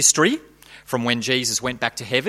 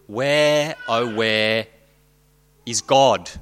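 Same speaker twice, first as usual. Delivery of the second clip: wailed; 2 semitones lower, much slower than usual. Acted. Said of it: "wailed into the nebulous night".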